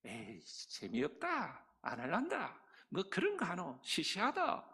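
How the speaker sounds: low, soft, dismissive grumble; bored refusal. Retold or imitated. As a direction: sneer it off like a bored kid. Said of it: "뭐 이러면서 아이들이".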